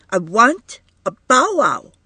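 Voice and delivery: put-on high little-girl demand; a small girl insisting she wants it; toddler voice. A narrator's reading. Child to her mother, high insistent toddler voice.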